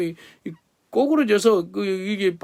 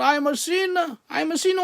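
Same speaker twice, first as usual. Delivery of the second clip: higher pleading cry; mild retold cry; 6 semitones higher than usual. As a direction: call it out like a man breaking down. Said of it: "he cried out".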